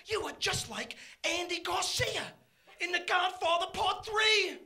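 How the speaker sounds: mildly hammed-up awe, starting high; retold excitement. Son telling his dad he's like Andy Garcia, mock excited. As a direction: act out a thrilled kid, slowing at the end. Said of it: "I got all excited".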